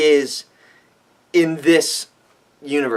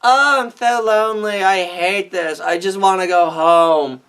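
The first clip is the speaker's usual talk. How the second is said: lightly whiny mopey Kirk; a hint of whiny Kirk; mock whining. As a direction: imitate a bored captain moaning. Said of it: "He doesn't cry and whine".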